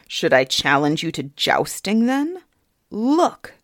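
mock her with a sneer; king sneering at the idea of a joust; mocking fairy king. King mocks her challenge.

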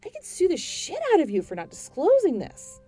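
loud, high ranting; furious rant. Acted. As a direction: tear into her over the phone. Ranting at agent.

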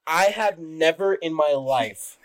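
slow, heavy disappointment; measured, fatherly disappointment; disappointed father. Real, not acted. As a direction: say it slowly, like a let-down dad. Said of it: "You sound like a disappointed father".

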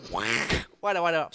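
holding back laughter; trying not to laugh. Real, not acted. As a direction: voice close to cracking up. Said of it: "Stop, stop making me laugh".

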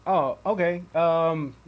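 corrupted glitchy audio. Real, not acted. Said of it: "your audio was cutting out".

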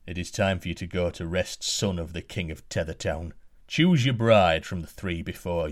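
a hint of a big giant sending the prince to bed; giant's command. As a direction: giant orders the prince to choose a bride, lightly voiced.

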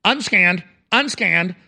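mechanical repeated robot alert; mock robot readout. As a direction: report it like a scanning machine. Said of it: "the robots are rolling out".

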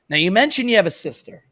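put-on Italian accent. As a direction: ask it like a half-hearted Italian mobster. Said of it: "Why am I doing the Italian accent again?".

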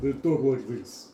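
put-on Russian-accented hamster voice. Game master showing how Russian hamsters talk, Russian accent. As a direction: answer in a mock Russian accent. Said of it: "They're actually Russians".

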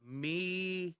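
slow, put-on Liverpool storytelling; goofy Liverpool accent. Telling friends about the Monopoly scheme, slow Liverpool accent. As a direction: draw the story out in mock Liverpool. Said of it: "Liverpool accent the rest of the night".

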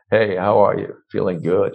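hammed-up deep, full voice; exaggerated deep voice. Shown as a demonstration. Coach exaggerating a freer voice for the host, deep and full. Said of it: "if I exaggerate and I talk".

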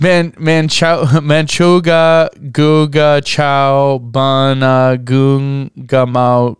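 laughing through a tongue twister; slow, laughing attempt. Shown as a demonstration. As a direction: sound out each syllable slowly. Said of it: "I gonna try it".

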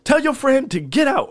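high, loud re-enacted furious bellow; booming, pissed-off voice. Cook re-enacting throwing drunks out of his diner, booming angry shout. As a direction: boom it out like you're clearing the room. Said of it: "I'm booming. Like, I'm pissed".

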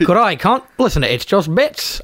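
put-on Aussie, fairly level; mock Australian attempt; Australian accent. Shown as a demonstration. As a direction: try the Australian greeting yourself. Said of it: "do that, but better".

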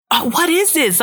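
a bewildered, high-voiced what is this; baffled. Baffled reaction while watching the show.

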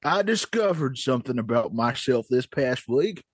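put-on old prospector. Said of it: "old Prospector wanted to bring something up".

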